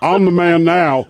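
slow mock macho voice; imitated man voice. Host echoing the caller's line, slow mock man voice. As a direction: draw it out, aping the caller's boast. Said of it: "That's what I tell him".

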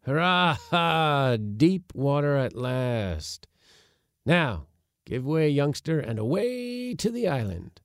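high, urgent boatman's commands; calling out orders. A narrator's reading. Uncle directing his crew as they push off, calling out. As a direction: call out excitedly across the boat.

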